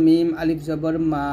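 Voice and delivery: lips meet for মা, vowel held long; lip-made madd. Shown as a demonstration. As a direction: spell it out, then stretch মা. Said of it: "মিমটা দুই ঠোঁটের ভিজা অংশ".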